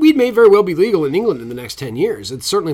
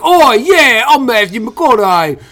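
much higher and louder, slow hammed-up Texan swagger; mock Matthew McConaughey drawl; 10 semitones higher, 9 dB louder, much slower than usual. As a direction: ham up a cocky movie-star Texan drawl, pitch climbing on each all right. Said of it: "trying to do a fucking English accent, and he'd be like".

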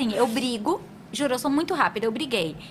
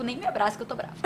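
mock angry sulk; 3 semitones lower, 8 dB quieter than usual. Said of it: "Aí eu já fiz, tipo".

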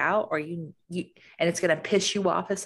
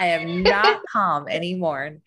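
slower and louder, each word firm; mock indignant; 6 dB louder than usual. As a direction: lean into every word, not calm at all. Overwhelmed wife rejecting "calm down.

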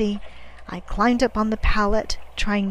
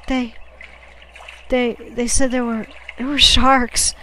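halting, higher, scared telling; frightened stammer; 3 semitones higher, 6 dB louder than usual. A narrator's reading. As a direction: stammer it out, louder on the last words. Frightened boy stammers out the news.

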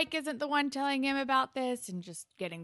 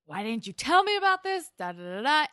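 loud, high, accusing yell; mock angry yell; 5 semitones higher, 5 dB louder than usual. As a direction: hurl the question at her as an accusation. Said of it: "And he's like".

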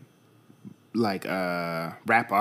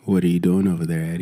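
sexual close-mic voice; 5 semitones lower, faster than usual. Shown as a demonstration. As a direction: purr it like a late-night DJ. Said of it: "makes anything sound sexual".

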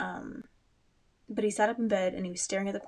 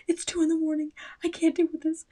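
rising, louder strained whisper; breaking from whisper into a higher cry; exasperated whisper-shout; 9 semitones higher, 3 dB louder than usual. Retold or imitated. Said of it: "'cause I was like".

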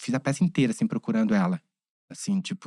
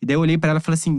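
normal talking voice

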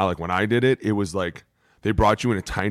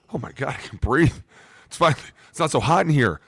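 higher, relieved gush; mock relief; 5 semitones higher than usual. Diner escaping a packed steakhouse, mock relief. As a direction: act out finally getting some air. Acting relief at the roomier restaurant.

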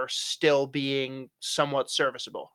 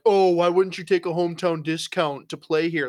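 whiny, put-upon Toronto fan voice; a lightly mocking fan whine; mocking upset fan; 2 semitones higher than usual. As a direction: sneer it like an entitled fan. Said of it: "Toronto fans are, like, upset".

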